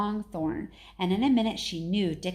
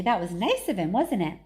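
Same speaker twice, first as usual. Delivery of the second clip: delighted; 4 dB louder than usual. Acted. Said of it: "said Martha delightedly".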